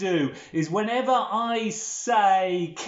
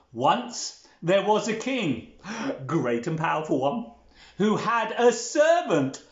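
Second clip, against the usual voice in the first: put-on children's storytelling. Telling children of a king and his servant, theatrical storytelling.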